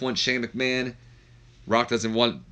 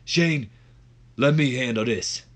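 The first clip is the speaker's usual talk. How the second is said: Booker T; 3 semitones higher, slower than usual. Acted. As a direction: step in and take charge on the mic. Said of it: "takes the mic and goes".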